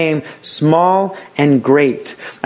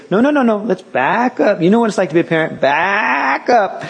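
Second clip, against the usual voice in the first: higher, slowing, a parent cutting off the whining; firm parent; 7 semitones higher than usual. Retold or imitated. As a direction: stop the child's complaint, patiently firm. Parent answers the whining child.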